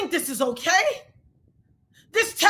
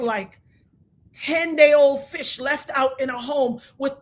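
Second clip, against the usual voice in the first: lower, slow, cold curse; 4 semitones lower than usual. Real, not acted. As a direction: hex her slowly. Lays a curse on Gina.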